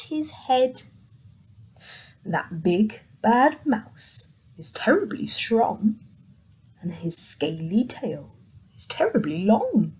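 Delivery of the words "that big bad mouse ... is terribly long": hushed scary description of the mouse; spooky whispered warning. Acted. Gruffalo warning his child about the mouse, spooky whisper. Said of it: "the Gruffalo said".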